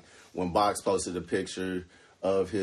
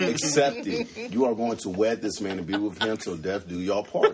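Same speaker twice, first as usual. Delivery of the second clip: calm yell. Pretend. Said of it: "I have to calmly yell at her".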